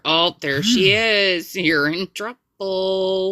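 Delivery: slow, drawn-out mock warning; playful teasing. Catching a friend still up past bedtime, teasing. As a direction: tease her, stretching out the words.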